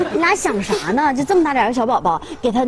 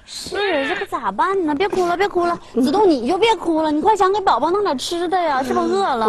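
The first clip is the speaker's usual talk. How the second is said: high-pitched fretting; flustered worry; 6 semitones higher than usual. Acted. Urging friend to feed the crying baby, flustered. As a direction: fret helplessly in a raised pitch.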